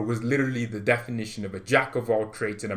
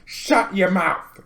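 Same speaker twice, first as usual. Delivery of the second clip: mock rapper; 6 semitones higher, 4 dB louder, much slower than usual. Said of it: "I'm feeling like a rapper".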